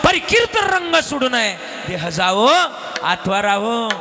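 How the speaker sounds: Tukaram shouting. Acted. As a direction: yell after the fleeing crowd to hold them. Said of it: "Tukaram महाराज ओरडले मागून".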